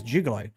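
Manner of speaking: juggalo with an "oo" in the first syllable; juggalo, first vowel like "too"; "joo-galo" pronunciation. Shown as a demonstration. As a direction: say juggalo as "JOO-guh-low". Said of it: "I've been told it's juggalo".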